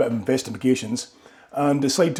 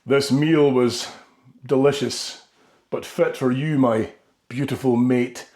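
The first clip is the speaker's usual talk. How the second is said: mock romantic line. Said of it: "say to her".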